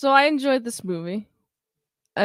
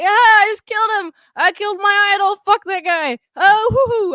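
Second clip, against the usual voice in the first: much higher, louder, fast manic celebration; manic glee; 10 semitones higher, 7 dB louder than usual. Retold or imitated. The Joker dancing after the murder, manic higher, louder glee. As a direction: cackle through it like a giddy madman.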